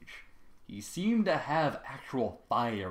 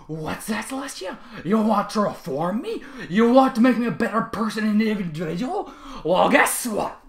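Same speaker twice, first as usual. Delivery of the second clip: loud, higher, mocking sarcasm; sarcastic mock reply; 10 semitones higher, 10 dB louder than usual. A narrator's reading. Trevor sarcastically answers Celestia, mocking. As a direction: sneer up at an unseen princess.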